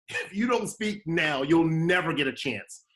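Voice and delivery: urgent self pep talk. Retold or imitated. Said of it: "And I said".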